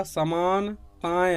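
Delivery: समानताएं slowly split as समान, ताएं; separate pieces. Shown as a demonstration. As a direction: pause between समान and ताएं. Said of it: "अलग बोलेगा".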